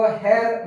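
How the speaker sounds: हेयर with a hard r at the end; wrong pronunciation. Shown as a demonstration. Teacher showing students the wrong way. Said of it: "ये गलत हो जाएगा".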